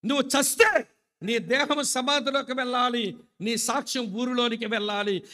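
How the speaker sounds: rousing pulpit call to live a faithful witness; full-force preaching. Acted.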